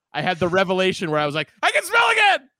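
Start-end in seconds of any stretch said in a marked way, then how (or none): 1.6-2.4 very high-pitched, loud shouting cry. Retelling getting the sense of smell back, retelling a shout. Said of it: "I shouted that to nobody".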